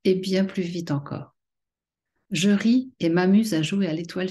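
measured poem reading, phrase by phrase with pauses; poetry recitation. Acted. Poet sharing her own poem Étincelle divine with followers, measured recitation. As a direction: recite it line by line, letting each image land.

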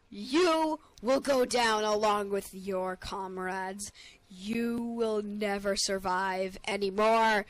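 slow, hammed-up villain threat; mock dramatic threat. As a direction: draw out the threat like a movie villain. Taunting the boss in gameplay.

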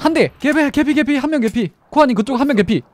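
high, loud urgent callout; urgent shout. Real, not acted. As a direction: yell it to the team fast. Calling out enemy damage. (다급하게 외치는 콜)

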